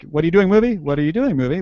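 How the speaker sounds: "What are you doing, movie?" asked lightly, rising on "movie"; questioning emphasis. Shown as a demonstration. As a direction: run it as a quick casual question, lifting "movie". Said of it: "get the right emphasis".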